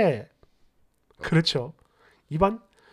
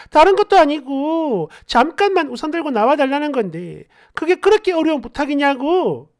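indignant, somewhat raised voice; mildly raised angry protest; 4 dB louder than usual. Acted. Drenched girlfriend confronting her boyfriend on getting home, indignant. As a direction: confront him with hurt indignation. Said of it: "바로 소리를 질렀습니다".

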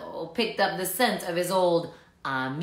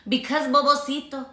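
misread take; 6 semitones higher, 4 dB louder than usual. Acted. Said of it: "oh, excuse me".

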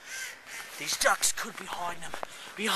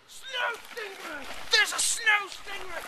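startled; 12 semitones higher, 4 dB quieter, slower than usual. Pretend. Alarm at creature.

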